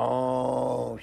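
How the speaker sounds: long drawn-out moo; imitated cow sound. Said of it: "says the cow".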